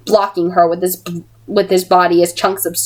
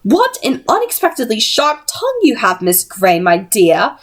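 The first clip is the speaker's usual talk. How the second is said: mocking; 4 semitones higher than usual. Missus Black mocking Tessa.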